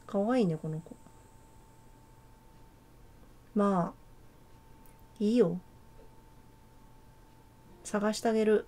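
put-on a playful stranger teasing in a messy Kansai accent. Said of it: "関西弁風に喋るか。". (めちゃくちゃな関西弁風)

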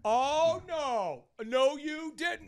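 high, slow sassy no you didn't; sassy crowd. Retold or imitated. Onlookers hyping a club fight, high sassy taunt. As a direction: egg on the fight with sass. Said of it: "they go".

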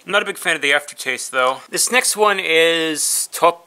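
talking while chewing; muffled by food; mouth partly full. Real, not acted. Seen 3: bit bar just before; bitten bar at mouth, jaw moving while speaking.

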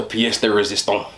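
put-on light, playful French accent. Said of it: "said that in, like, French accent".

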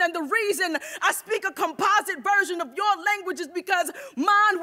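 forceful, rising spoken-word delivery, with shouted peaks; defiant declaiming. Acted. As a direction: preach it with fire, pushing harder through each line. Poem builds to a defiant climax.

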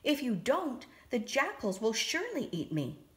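high, frightened little mouse voice; a scared mouse fearing the jackals; squeaking mouse. Acted. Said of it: "the mouse squeaked".

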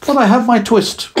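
put-on high, loud old tailor voice; high tired old tailor; weary old tailor. A narrator's reading. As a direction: sigh it out, worn to nothing. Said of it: "said the Tailor of Gloucester".

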